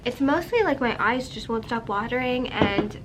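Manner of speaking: stuffy, blocked-nose voice from a cold; congested. Real, not acted. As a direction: speak through a head cold. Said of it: "I'm a little congested".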